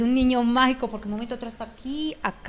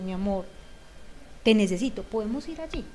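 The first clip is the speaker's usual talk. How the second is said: gentle request; 5 dB quieter than usual. Retold or imitated. Parent approaching the child, asking gently and softly. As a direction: ask kindly, as if to a loved one. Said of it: "Es muy diferente".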